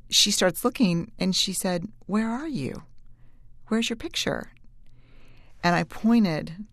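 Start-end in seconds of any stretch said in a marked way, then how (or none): 2.1-4.5 put-on higher, softer puzzled child voice; lightly voiced girl searching, puzzled; young daughter's voice. Daughter looks for mom on the poster, higher puzzled girl voice.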